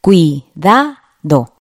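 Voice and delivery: "Cuidado" very slowly as cui, da, do; three spaced beats on "Cuidado"; split into syllables. Shown as a demonstration. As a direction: sound out "Cuidado" one syllable at a time. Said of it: "Tiene tres golpes de voz".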